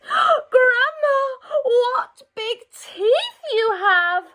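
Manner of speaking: put-on high, slow, alarmed child; frightened girl. Red seeing the shining teeth, frightened girl's voice. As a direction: draw it out in growing fright.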